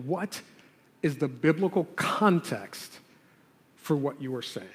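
"biblical context" set apart by pauses; stress on key words. Shown as a demonstration. Pastor coaching the congregation's question, deliberately emphasized. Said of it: "emphasize the word biblical".

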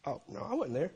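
softly acted sheepish denial; quietly disown it, a touch embarrassed. Preacher voicing a cloak-layer disowning Jesus, mildly embarrassed denial. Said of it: "might have even been a little embarrassed".

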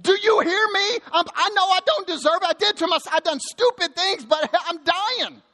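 high-pitched, desperate cry to God; emphatic, emotional plea. Acted. Preacher voices the psalmist sinking and begging God, emphatic and desperate. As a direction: plead upward, pitch climbing as if going under. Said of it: "is emphatic and emotional".

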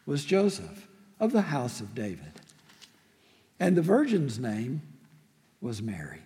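measured, solemn Bible reading; scripture reading. Acted. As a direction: read the passage with reverence. Pastor reads scripture aloud.

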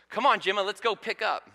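put-on high-pitched, eager kid's call; excited child voice. Big sister urging little sister to tidy, excited. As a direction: imitate a little girl rallying her sister. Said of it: "in a real excited voice".

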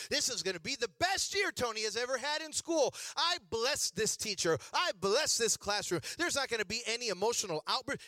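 lightly imitated blessing prayer; a touch of mom's prayer cadence; Joel Osteen. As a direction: declare favor like a positive-thinking preacher. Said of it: "My mom went all Joel Osteen".

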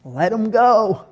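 a hint of Jesus, relaxed and easy; Jesus, lightly voiced. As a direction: wave it off gently as Jesus. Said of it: "And Jesus is like".

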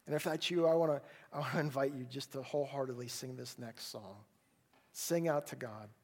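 closing prayer. Acted. Pastor praying over the congregation, earnest and steady. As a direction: pray it sincerely for the hurting.

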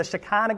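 Shekinah said shuh-KAH-nuh, stress on the middle syllable; his own way of saying Shekinah. Shown as a demonstration. Pastor to his congregation, saying Shekinah as shuh-KAH-nuh. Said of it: "I always gotta say it like that".

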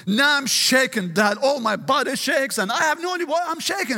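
mildly worked-up retelling; retold bewilderment. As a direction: imitate a son's agitated testimony, rising high at the end. Retelling son's bewildered, shaking account.

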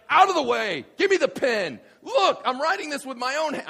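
high, loud, impatient orders; shouted impression of a worked-up apostle; fired up. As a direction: act out Paul seizing the pen. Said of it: "he's getting so fired up".

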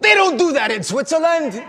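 high, loud mock outburst; scolding café papa. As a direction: scold him like an outraged café owner. Café owner scolds customer in story.

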